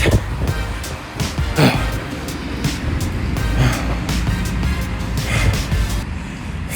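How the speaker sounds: a long drawn-out tired sigh; long weary sigh. Real, not acted. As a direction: let out a slow hungover sigh. Groggy hungover morning.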